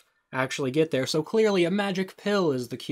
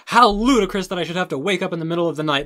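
mocking impression; 4 semitones higher, 7 dB louder, faster than usual. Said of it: "I love how she's like".

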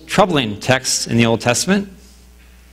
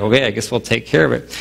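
awkward reluctance; 4 semitones lower than usual. Retold or imitated. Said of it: "more than a little awkward".

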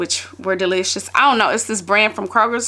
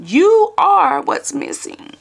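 mock preacher climax; 4 semitones higher, much slower than usual. Imitating Pastor Torrey hitting the sermon's peak, slow and rising. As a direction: land the sermon line like a Sunday climax. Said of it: "That's what he said".

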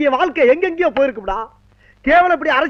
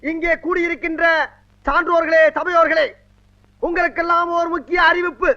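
strained street theatre shout; 3 semitones higher than usual. Acted. Leader's street speech.

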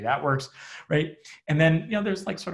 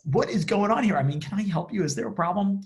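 higher, louder alarmed questions; a lightly voiced passer-by rushing up; concerned stranger; 8 semitones higher, 4 dB louder than usual. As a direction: traveller running up to the couple, mildly alarmed. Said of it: "he says".

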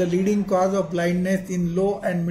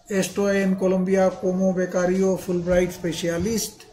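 Indian-accented Spanish. Real, not acted. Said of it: "apologies for my Spanish pronunciation".

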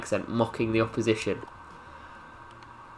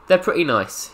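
"They're pretty nice" lifted higher, mock cute; "They're pretty nice" in a higher, cutesy tone; 5 semitones higher than usual. Shown as a demonstration. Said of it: "cutesy bootsies".

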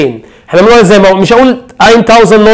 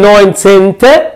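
slow syllable demo; slower than usual. Shown as a demonstration. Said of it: "نوينتين،".

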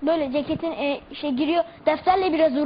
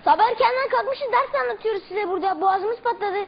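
scolding teacher; 4 semitones higher than usual. Retold or imitated. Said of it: "Türkçe öğretmenimin taklidini yapacağım".

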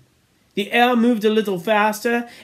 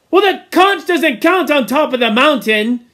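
dismissive; 8 semitones higher, 7 dB louder than usual. Acted. Jack arguing with Piggy.

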